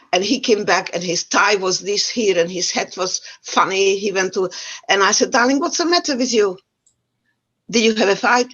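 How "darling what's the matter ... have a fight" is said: higher-pitched motherly questioning; retold mother's concern. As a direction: gently ask a small child what happened. Mother questioning her young son.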